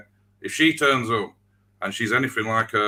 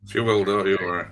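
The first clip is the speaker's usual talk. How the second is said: low, knowing Yorkshire accent; a sinister Yorkshire reassurance; deep Yorkshire accent. Real, not acted. Pundit reassuring the panel, in a deep Yorkshire accent. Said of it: "There's something sinister about that being said in a deep Yorkshire accent".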